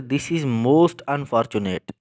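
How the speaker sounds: this is most unfortunate, each word spoken slowly for the class; slow teacher's example read; slow example sentence. Shown as a demonstration. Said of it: "इस चीज़ को हम compare नहीं कर रहे sentence में".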